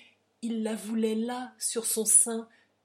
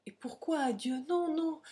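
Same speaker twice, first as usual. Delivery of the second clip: high, urgent rush of words; frantic, voluble pleading; heedless volubility; 7 semitones higher than usual. A narrator's reading. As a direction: gush reassurances in a much higher voice. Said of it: "avec une volubilité d'inconsciente".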